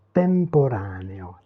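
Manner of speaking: Temporaneo slow, leaning on the first vowel then letting go; Temporaneo: lean on the opening vowel, then let it flow; Italian pronunciation. Shown as a demonstration. Teacher models Italian for French learners: slow, careful Temporaneo. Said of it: "appuyez-vous sur la voyelle au départ".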